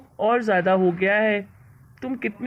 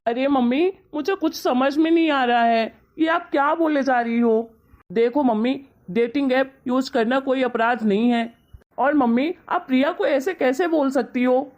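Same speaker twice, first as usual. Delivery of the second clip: upset protest; 4 semitones higher than usual. Acted. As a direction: push back hard, defending his wife. Son arguing back at his mother.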